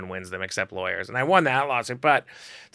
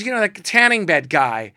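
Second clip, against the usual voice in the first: model; 8 semitones higher, 7 dB louder than usual. Retold or imitated. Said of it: "she goes".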